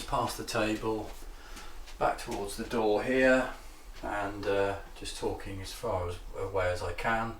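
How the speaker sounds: backing away from the mic; distant voice; fading out. Real, not acted. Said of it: "Walking backwards".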